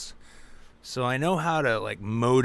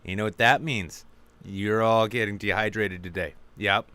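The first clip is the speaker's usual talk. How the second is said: smug manager; 8 dB louder than usual. Pretend. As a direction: scold the staff like a petty boss. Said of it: "So it's just like".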